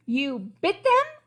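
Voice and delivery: high, slow disbelief; shocked question. Acted. Shocked princess asks the crocodile, high and slow. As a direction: ask in disbelief.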